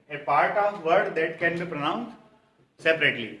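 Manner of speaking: very slow, each word spaced out for students to copy; slow dictation. Shown as a demonstration. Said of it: "repeats dictation slowly". (बहुत धीमे, शब्द-शब्द अलग करके dictation)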